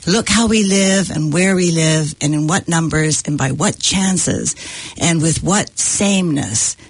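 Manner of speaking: measured reading of a novel speech; literary reading. Acted. Guest reads a mill worker's speech from Dickens, measured reading. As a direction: read it out deliberately, slowing into the last phrase.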